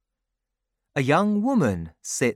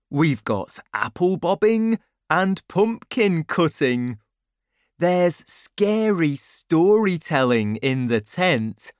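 put-on a touch higher, lively boy's voice; lightly voiced boy Jack; 5 semitones higher, 4 dB louder than usual. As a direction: lightly play a boy telling his friends about the party.

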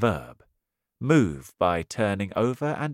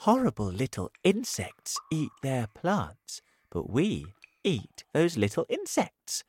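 ladybird voice; 4 semitones higher than usual. Acted. Ladybird explains.

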